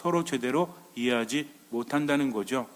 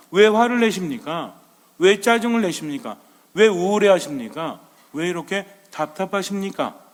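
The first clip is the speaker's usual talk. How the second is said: louder, mildly acted string of reproaches; mock confrontation, raised voice; reproachful questioning; 3 semitones higher, 5 dB louder than usual. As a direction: fire off each question as an acted complaint. Acting out people's reproachful questions.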